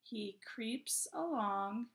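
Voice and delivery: slow, measured poem reading with pauses between phrases; poem read to children. Acted. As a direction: read word by word, slowly, for young children. Reads the poem together.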